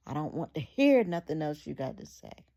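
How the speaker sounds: husband yelling at his wife to stop talking; angry shout. Retold or imitated. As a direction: bark it at her as he strikes. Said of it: "And Jess got angry".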